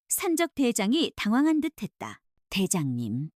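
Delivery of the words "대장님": calm. Acted. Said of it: "설현이 차분히 말했다".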